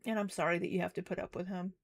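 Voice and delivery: soft, sincere apology; gentle sympathy. Real, not acted. Streamer to a hurt viewer who joined, gently sympathetic. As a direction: console softly, with real sympathy.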